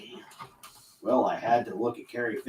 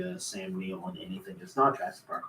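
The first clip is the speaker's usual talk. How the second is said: normal talking voice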